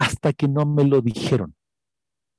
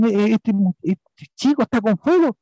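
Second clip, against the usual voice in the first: imitando al inglés; 6 semitones higher than usual. Retold or imitated. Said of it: "me dice".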